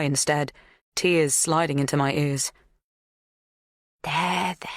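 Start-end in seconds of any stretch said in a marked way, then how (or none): 4.0-4.7 soothing. A narrator's reading. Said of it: "she soothes".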